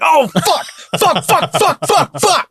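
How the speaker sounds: high laughing string of curses; frustrated cursing. Retold or imitated. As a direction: spit out each fuck in dismay. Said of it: "I would have just ... be like".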